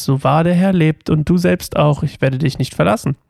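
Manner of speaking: measured story narration from the page; scripture reading aloud. A narrator's reading. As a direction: read it out as a Bible story, lightly voicing the quotes. Reads Bible passage aloud. (biblische Geschichte vorlesen)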